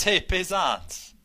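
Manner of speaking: slow, high mock Italian greeting; Italian accent. Co-host reads a listener's email in a mock Italian accent. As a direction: stretch it out like a hammy Italian paisan. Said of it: "types in the Italian accent".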